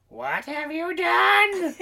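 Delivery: high, loud, very slow accusation; aghast Molly. Retold or imitated. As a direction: drag out the horror. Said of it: "Molly starts to grin like".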